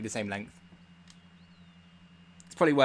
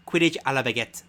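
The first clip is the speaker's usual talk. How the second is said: reading "Quidditch à la baguette" in a hammed-up French accent; a jokey French accent, a bit louder; mock French accent; 5 dB louder than usual. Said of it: "Enjoy my French accent".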